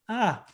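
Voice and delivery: feeble "ah" imitating a timid trainee; small, held-back attempt at a shout; half-hearted yell. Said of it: "you think that's as loud".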